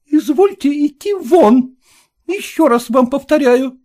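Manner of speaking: high, firm demand to leave; lady's voice, firm; cold order. A narrator's reading. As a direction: repeat the order icily. Lady orders out.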